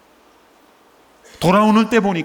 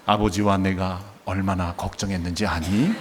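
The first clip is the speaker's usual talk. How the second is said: softer, lower, overly polite reading of the line; prim, genteel reading; 7 semitones lower, 5 dB quieter than usual. Shown as a demonstration. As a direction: read it primly, as if too calm. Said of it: "이렇게 점잖게 낭독을 했겠습니까?".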